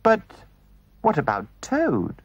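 anxious. Acted. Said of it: "asked the mole anxiously".

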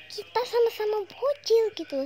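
conspiratorial whisper; whispered aside. Real, not acted. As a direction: lean in and whisper the joke to the viewers.

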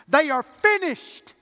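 high, loud preaching declaration; emphatic proclamation. Acted. Preacher voicing the close of creation, ringing proclamation. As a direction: proclaim it at full voice.

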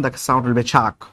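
American accent ch. Shown as a demonstration. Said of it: "If you go to the American accent".

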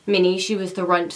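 breathless after running upstairs; out of breath. Real, not acted. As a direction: talk while catching your breath. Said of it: "Sorry, I'm out of breath".

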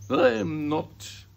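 loud, slow, indignant retort; sharp retort. Acted. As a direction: snap back, stretching the words. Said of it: "Missus Lambchop said sharply".

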